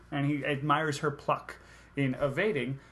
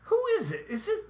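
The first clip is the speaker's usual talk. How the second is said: laughing confusion; 8 semitones higher than usual. Retold or imitated. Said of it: "and I go".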